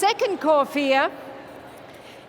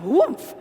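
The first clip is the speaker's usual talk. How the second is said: igniting pilot light; 3 dB louder than usual. Retold or imitated. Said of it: "their little pilot light, it's gonna be going".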